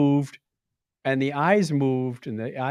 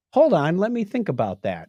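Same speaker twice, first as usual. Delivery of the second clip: robotic toy voice; 5 semitones higher than usual. Retold or imitated. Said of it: "it said".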